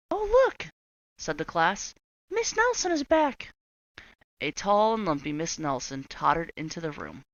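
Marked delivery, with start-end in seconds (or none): 0.1-0.7 put-on high, loud excited children; excited kids. Class voiced in story. 2.3-3.5 put-on high, loud children's voice; excited kids. Class voiced in story.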